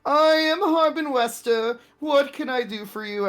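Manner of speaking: distracted town master. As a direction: greet them while busy writing. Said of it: "As he's just writing things on".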